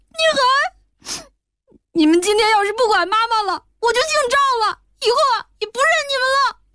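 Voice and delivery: put-on high tearful boy's voice, breaking into sobs; a child pleading through tears; crying child. A narrator's reading. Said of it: "哭道".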